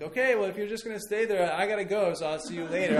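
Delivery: acted-out dad bluffing a toddler; parental bluff. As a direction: call back casually as if leaving. Dad bluffing he will leave child.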